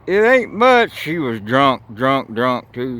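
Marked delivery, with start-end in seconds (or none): 0.1-0.9 lightly voiced woman, pitched higher; quoted native lady. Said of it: "this native lady says".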